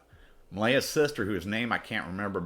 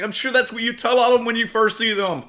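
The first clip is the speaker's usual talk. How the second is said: much higher and louder, a squeaky falsetto woman pleading; mock high woman's voice; 11 dB louder than usual. Singer to the man she thinks is a pimp, high mock falsetto. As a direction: play the frightened singer in a shrill-high mock voice. Singer answers him sarcastically.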